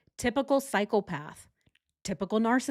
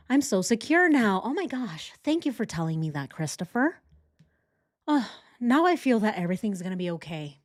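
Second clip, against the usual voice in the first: dripping sarcasm, mock gratitude; sarcastic mock relief, pitched up. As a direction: pretend to be comforted, rolling the eyes. Mocking Chris's empty reassurance.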